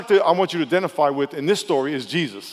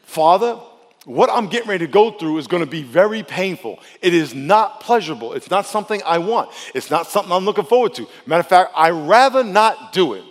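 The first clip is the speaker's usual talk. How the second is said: Jesus; 3 semitones higher, 4 dB louder than usual. Acted. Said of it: "In other words".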